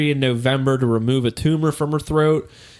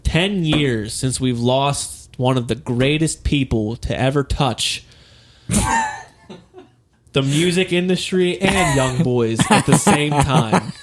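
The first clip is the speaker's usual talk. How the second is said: ağır tören sesi; slower than usual. Acted. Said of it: "Well done".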